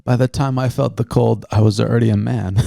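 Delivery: Bane voice. Retold or imitated. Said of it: "quoting Bane from The Dark Knight Rises".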